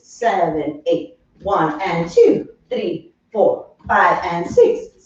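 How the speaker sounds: counting the beat, steady and sung-through; rhythmic dance counting. Acted. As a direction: chant the counts in time with the steps. Instructor counting dance steps.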